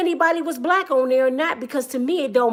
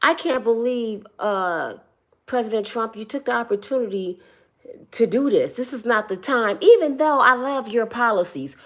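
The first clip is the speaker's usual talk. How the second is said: mock Trump supporter; 4 semitones lower, 4 dB quieter than usual. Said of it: "a couple people said this".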